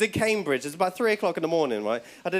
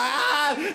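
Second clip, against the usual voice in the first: mock pain yell; 5 semitones higher than usual. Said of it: "He's like".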